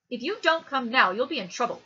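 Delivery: put-on loud, high child's warning; bossy little sister. A narrator's reading. Little sister warning her brother, loud bossy child voice. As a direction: scold like a bossy small girl.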